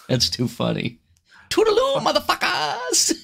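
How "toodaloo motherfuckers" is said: very high, squealed comic farewell; piercingly high put-on character voice; movie impression. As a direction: mimic a comic film villain's gleeful send-off. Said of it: "Reminds me of Hangover Two".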